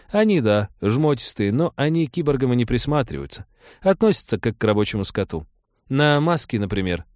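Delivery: earnest, apologetic female character; earnest Trixie. Acted. Voices Trixie explaining.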